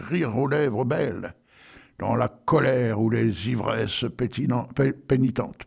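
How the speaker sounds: slow, deliberate reading of verse; solemn poetry recitation; poem recital. Acted. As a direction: recite Rimbaud slowly, savouring each image. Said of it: "Alors, j'y vais, attention".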